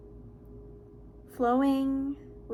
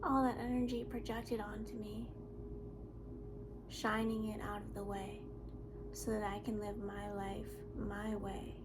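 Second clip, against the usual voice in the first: soft spoken interlude in a song; hushed recitation between sung verses; 9 dB quieter than usual. Real, not acted.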